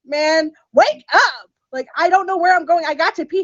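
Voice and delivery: high, pressing plea to wake up; urgent pleading. Retold or imitated. To her drunk date, needing the bathroom, high urgent plea. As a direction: shake him awake with your voice.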